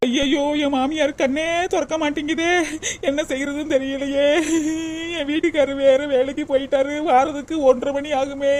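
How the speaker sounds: helpless sobbing lament; acted crying, at a loss; tearful wailing. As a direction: wail to yourself in panic, drawing out the line endings. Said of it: "அழுதுகிட்டு கிடக்காக".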